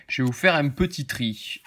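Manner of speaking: lightly played southern French Marseille accent; put-on Marseille accent. YouTuber announcing he'll sort his cards, in mock Marseille accent. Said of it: "je prends l'accent, euh, marseillais".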